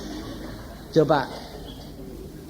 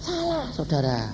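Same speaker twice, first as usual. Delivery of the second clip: preacher's outcry; 12 semitones higher, 12 dB quieter than usual. Real, not acted. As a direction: cry out against it from the pulpit. Preacher rebukes congregation.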